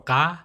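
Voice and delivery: throaty open "ga"; "ga" with no nasal onset; guttural consonant. Shown as a demonstration. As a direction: sound out "ga" from the throat. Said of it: "which is number twenty-four".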